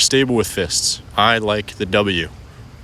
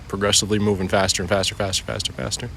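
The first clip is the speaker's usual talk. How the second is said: quick patter, fading softer as it repeats; speeding up; 3 dB quieter, faster than usual. Shown as a demonstration. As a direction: rattle the repeats off quickly, trailing quieter. Mimics the speeding arm circles by voice.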